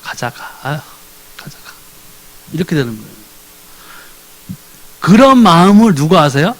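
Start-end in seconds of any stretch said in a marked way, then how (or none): 0.0-1.7 much softer weary mumble; barely voiced grudging sigh; reluctant sigh. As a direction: drag yourself to church. Reluctant churchgoer sighing.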